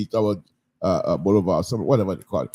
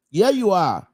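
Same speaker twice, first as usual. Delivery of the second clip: louder repeat; 7 semitones higher, 4 dB louder than usual. Real, not acted.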